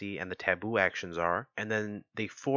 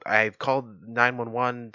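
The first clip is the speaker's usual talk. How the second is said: half-hearted raised shout, drawn out slowly; mock scream; 3 semitones higher, 5 dB louder, slower than usual. Bystander to the person trapped inside, mock scream. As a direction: call out slowly, pretending to shout. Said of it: "scream, you know".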